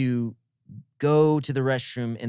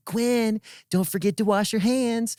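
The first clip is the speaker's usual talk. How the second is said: high-pitched mom calling out; imitated motherly yell; 9 semitones higher than usual. Mom yelling back to her son in the restroom, mock calling out. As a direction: call out like a mom reminding her child, pitched well up. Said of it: "she yells".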